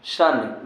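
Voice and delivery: शन starting with a SH sound; TION as "shun". Shown as a demonstration. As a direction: say शन as one syllable, "shun". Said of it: "शन पढ़ते हैं". (शन, श की आवाज़ से)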